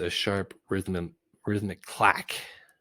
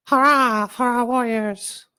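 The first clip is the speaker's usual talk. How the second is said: very high, much louder hurrah; shouted cheer; 13 dB louder than usual. Acted. Gumpel cheering the warriors from hidden in the crowd, shouting. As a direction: yell it out over the crowd.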